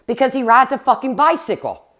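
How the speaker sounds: soothing a scared caller, replayed; retold reassurance. Streamer retelling how she calmed the bedridden woman, mildly reassuring. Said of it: "I tried to calm her down".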